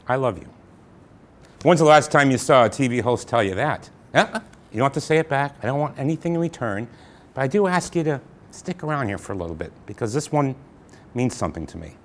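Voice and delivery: tender. Acted. Host confessing love to viewers.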